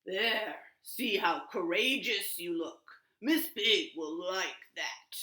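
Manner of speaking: a hint of a big slow lion; grand lion offering his mane. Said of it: "said the lion".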